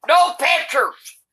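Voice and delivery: usual speaking voice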